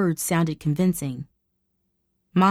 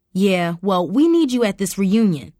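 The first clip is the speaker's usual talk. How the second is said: exclaiming; 4 dB louder than usual. Acted. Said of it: "Mom exclaimed".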